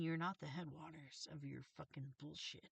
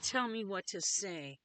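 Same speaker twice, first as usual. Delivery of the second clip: loud, slow, deliberate demand; emphatic self-quote; 2 semitones higher, 9 dB louder, slower than usual. Retold or imitated. Speaker repeating their request to viewers, loud and emphatic. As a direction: retell the plea loudly, word by word. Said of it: "when I said".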